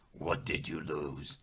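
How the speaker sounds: slow, soft mysterious voice; quiet knowing reply; calm spirit voice. Acted. Running Bear speaks.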